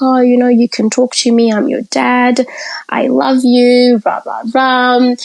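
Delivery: a lightly voiced dad laying it on; hammed-up caring dad. Dad reassuring his crying daughter in the car, mock tender. Voicing dad's pep talk.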